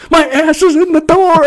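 drawn-out, high-pitched loud scream. Retold or imitated. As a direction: scream it slowly, reenacting the pain. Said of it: "I'm just screaming".

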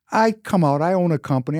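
ordinary delivery

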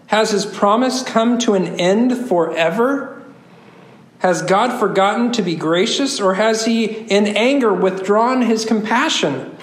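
deliberate reading of pleading questions; scripture reading. Acted. Preacher reading the psalmist's questions aloud, measured recitation. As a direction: read each question out with measured weight.

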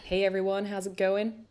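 hint of a manly American accent; lightly put-on, botched American accent; bad American accent. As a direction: attempt an American accent and miss, going manly. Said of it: "that was the worst American accent ever".

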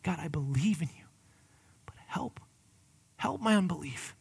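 hushed, breathy whisper of a plea; whispered prayer. Shown as a demonstration. Pastor modelling a quiet prayer for his listeners, whispered. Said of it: "that's what we need to utter".

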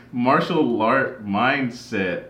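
slow, deliberate retake; slow and careful. Shown as a demonstration. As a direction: spell out every word slowly to get it right. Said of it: "Let's try it one more time".

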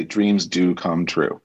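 slow, earnest motto; motto delivery. Shown as a demonstration. Performer sharing her life motto, slow and sincere. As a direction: say it like a heartfelt creed. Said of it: "That's my motto".

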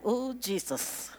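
slow, hushed inner groan; a weary prayer to himself; inner sigh. Retold or imitated. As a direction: breathe it out slowly under your breath. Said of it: "I'm sitting there going".

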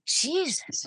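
a spirit losing patience with her; exasperated spirit. Retold or imitated. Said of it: "I'm sure spirit's going".

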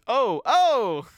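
high sung oh oh; imitating singer. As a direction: mimic the singer's oh oh. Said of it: "he just says".

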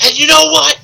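high, strained mock promo voice; hammed-up build of suspense, drawing out the end; Usos. Host mocking the tag team's promo, high hammed-up delivery. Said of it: "but I don't like that".

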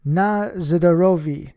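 shouted slow toast; rowdy guests toasting loudly. Acted. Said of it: "half a dozen voices shouted".

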